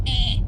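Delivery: short beeping cat "eh"; imitated cat squeak. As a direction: squeak like an odd little cat. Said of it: "he doesn't meow like a normal cat".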